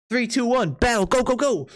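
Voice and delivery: energetic game-start call; excited countdown. Real, not acted. Streamer starting chat's game round, excited countdown. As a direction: count them in and launch the round.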